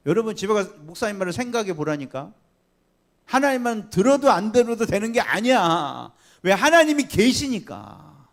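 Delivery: forceful preaching. Acted. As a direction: press the point home to the congregation. Pastor pressing the congregation.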